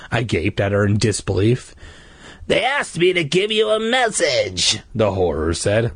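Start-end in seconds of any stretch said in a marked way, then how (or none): 2.5-4.8 creepy monster worker. Acted. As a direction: speak like a sly park monster. Horror speaking.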